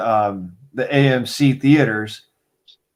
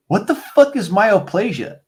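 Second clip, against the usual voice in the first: baffled paramedic; 7 semitones higher than usual. Retold or imitated.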